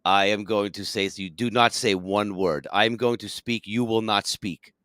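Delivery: put-on Russian accent. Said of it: "he goes just like this".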